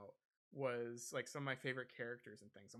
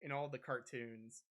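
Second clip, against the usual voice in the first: gushing fan. Acted. Fan gushing at favorite character.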